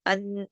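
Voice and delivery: अन- with the n sounded through the nose; isolated nasal अन-; nasal ghunnah. Shown as a demonstration. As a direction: hum briefly on the n of अन-. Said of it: "गुन्ना हो रहा है".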